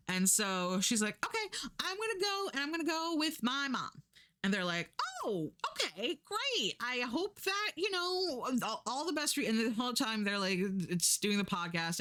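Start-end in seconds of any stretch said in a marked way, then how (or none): 1.2-4.0 much higher, sing-song mock chirp, quickened; hammed-up cheerful guest finally leaving; chirpy announcement. 5.2-9.5 much higher, sugary mock farewell; hammed-up polite relief; fake-cheery farewell.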